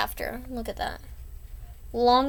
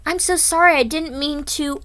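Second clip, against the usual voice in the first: flustered apology; 5 semitones higher, 6 dB louder than usual. Acted. Girl apologizing in comic.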